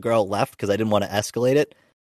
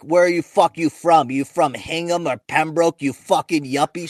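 mock angry yell, pitched up; retold screaming; 4 semitones higher than usual. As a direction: imitate a townie yelling at a kid. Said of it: "Screaming at this kid".

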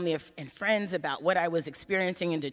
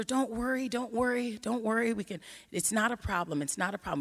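calm her down kindly; reassuring; 3 semitones higher than usual. Retold or imitated. Reassuring a humiliated woman.

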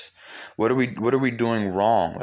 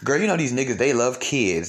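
higher-pitched mock girlfriend chat; imitated gossip; 4 semitones higher than usual. Host imitates women blaming external reasons, mock gossip. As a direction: confide a rumor as an imitated girlfriend.

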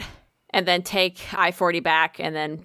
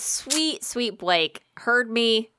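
mock-sweet sarcasm; 2 semitones higher, much slower than usual. Real, not acted. Sarcastic praise of Blake.

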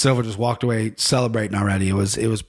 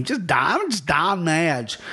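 higher, drawn-out mock-awed name drop; savoring the name; 4 semitones higher, much slower than usual. Host marvels at fighter Don Madge's name, savoring it. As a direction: roll the name out slowly and grandly.

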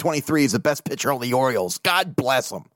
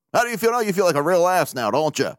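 taunting; 4 semitones higher, faster than usual. Retold or imitated. Acting out taunting texts from listeners.

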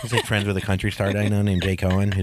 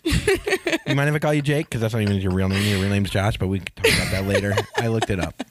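put-on drunk dialing; 3 semitones higher than usual. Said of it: "Sorry for all the drunk voicemails".

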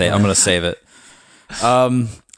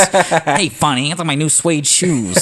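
high excited cartoon voice; quoting a Doug cartoon kid, high and bright; cartoon kid impression; 7 semitones higher, slower than usual. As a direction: chirp it high like a kid showing off shoes. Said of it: "the first episode of Doug".

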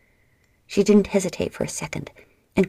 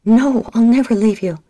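louder, higher, defiant; fierce refusal; 5 semitones higher, 7 dB louder than usual. A narrator's reading. Adia refusing to leave her sister, fierce. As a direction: refuse with everything you have.

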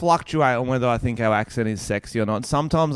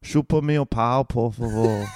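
understated Brazilian Portuguese; Brazilian Portuguese accent. Shown as a demonstration. Repeating the phrase for co-host, restrained Brazilian Portuguese. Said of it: "it sounds good, doesn't it".

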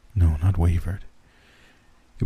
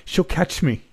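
high terrified plea; panicked; 9 semitones higher, 3 dB quieter than usual. Acted. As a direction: voice cracking with panic. Panicked plea while fleeing.

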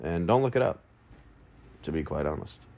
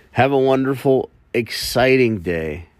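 higher, louder, cheery send-off; upbeat sign-off; 6 semitones higher, 4 dB louder than usual. Real, not acted. Podcaster signing off to his listeners, cheery. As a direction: wish them well brightly.

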